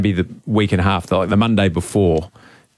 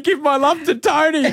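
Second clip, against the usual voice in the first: mock jealous lover. Running joke, jealous text.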